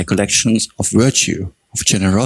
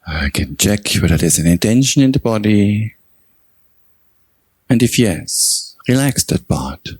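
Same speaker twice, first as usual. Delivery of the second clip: measured meditation guidance with long pauses between phrases; guided meditation. Real, not acted. Teacher guiding meditators to recall their own generosity, unhurried meditation delivery. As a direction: guide them gently through the reflection, phrase by phrase.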